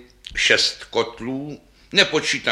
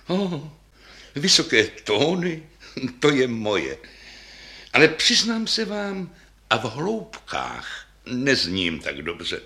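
lighter bass voice; slower than usual. Acted. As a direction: answer eagerly, a touch brighter. Second bass replies.

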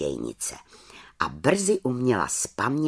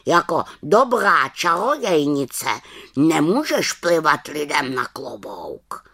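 scolding raven; 4 semitones higher, 4 dB louder than usual. Acted.

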